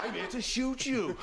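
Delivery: put-on high, slow comic Welsh accent; hammed-up Welsh secret agent; James Bond. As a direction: sing it out in a mock Welsh lilt. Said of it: "Welsh James Bond".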